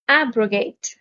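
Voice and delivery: ABrogate, weight on AB; stress on first syllable. Shown as a demonstration. Vocabulary teacher modelling the word for learners, stress on AB. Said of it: "The stress is on the first syllable".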